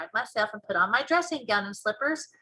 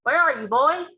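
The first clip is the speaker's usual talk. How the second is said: loud, higher father's shout; 5 semitones higher, 7 dB louder than usual. A narrator's reading. Daddy cannot see his son, shouting. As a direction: shout for a missing boy. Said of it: "he shouts".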